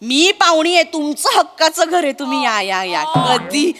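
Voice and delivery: overly sweet hostess voice on the phone; mock sweet welcome. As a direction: charm the sister-in-law falsely. Wife sweetly welcoming sister-in-law on phone.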